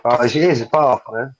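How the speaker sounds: "bath" with a southern accent and a long bah vowel; a casual southern "bath", falling. Shown as a demonstration. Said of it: "Bath, a southern accent".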